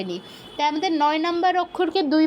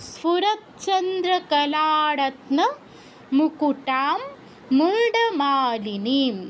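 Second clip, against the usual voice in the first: careful, measured chant-reading of the dhyana; slow careful recitation; much slower than usual. Shown as a demonstration. Teacher reading the full verse aloud for students, slow and careful. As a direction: read the Sanskrit verse slowly, word by word. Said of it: "পুরোটা কি হচ্ছে উচ্চারণ একবার পড়ি আমরা".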